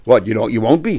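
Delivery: "you won't be" lifted into a question. Acted. Owner answers about torn clothing, questioning tone. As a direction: echo back "you won't be" as if doubting it. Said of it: "I said in a question mark".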